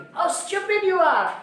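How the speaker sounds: mild scolding, you stressed; mock irritation. Shown as a demonstration. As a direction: tell someone off, half in jest. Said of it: "I'm getting angry or irritated".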